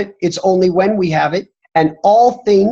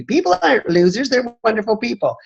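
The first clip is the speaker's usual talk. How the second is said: offended people; 5 semitones higher than usual. Retold or imitated. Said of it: "people get offended and say".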